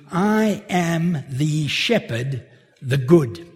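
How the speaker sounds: slow, with "good" set apart and stressed; emphatic literal reading. Shown as a demonstration. Preacher giving the emphatic literal translation. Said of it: "the literal translation is more emphatic".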